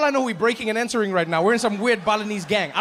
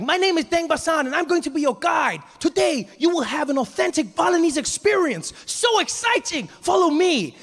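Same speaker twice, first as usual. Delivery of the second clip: much higher, chirpy guide patter; overly happy tour guide; 9 semitones higher than usual. Retold or imitated. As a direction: sell it like an eager tour guide. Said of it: "he's like".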